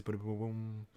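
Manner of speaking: timpani booms. Pretend. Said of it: "Get the timpanis".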